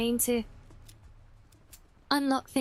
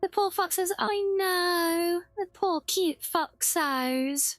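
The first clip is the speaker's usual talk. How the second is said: pitying; 5 semitones higher, slower than usual. Real, not acted. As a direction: coo over the poor foxes. Pitying the cute foxes.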